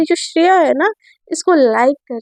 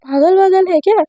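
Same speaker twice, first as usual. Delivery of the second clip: mother's voice; 3 semitones higher than usual. Acted. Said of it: "तो उसके mummy बोलते कि".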